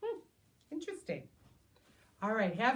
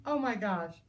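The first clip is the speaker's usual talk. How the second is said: amazed; 8 semitones higher, 8 dB louder, slower than usual. Real, not acted. Amazed at bubble snake.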